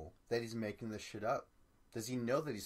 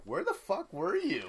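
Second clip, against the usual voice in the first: sharp high demand, louder; retold yell; 7 semitones higher, 5 dB louder than usual. Amanda yelling at Ashley for disappearing, high and loud. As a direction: yell it at her, up in pitch. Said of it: "Amanda yells at Ashley".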